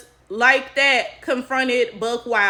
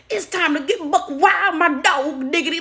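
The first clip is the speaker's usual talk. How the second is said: exaggerated put-on Black accent, pitched up; mock fake Black accent; 4 semitones higher than usual. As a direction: imitate someone faking a Black accent. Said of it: "Well, this is my accent".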